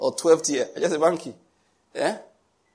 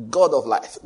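mock prayer call; 5 dB louder, slower than usual. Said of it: "how you call the name of God".

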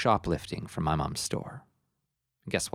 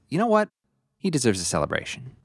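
excited; 4 semitones higher than usual. Acted. Narrator voices mom's decision.

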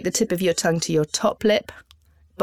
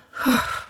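voiceless release of breath; relaxing demonstration exhale; out-breath sigh; 6 semitones higher than usual. Shown as a demonstration. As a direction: let the breath drop out in one sigh. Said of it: "on the out-breath".

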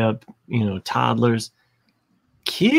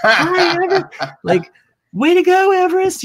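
very high, gushing hello; mock cheery teacher voice; sugary greeting; 6 dB louder than usual. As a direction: greet the kid like an adoring teacher. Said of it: "They're all like".

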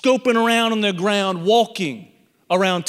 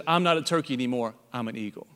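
quiet resolve; 7 semitones lower, 6 dB quieter, faster than usual. Acted. Jerome's quiet realization.

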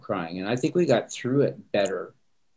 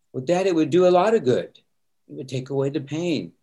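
higher and louder, pressing the point; insistent pleading; 5 semitones higher, 3 dB louder than usual. Retold or imitated. Son insisting to his dad tears help, higher insistent plea. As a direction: push back hard but kindly.

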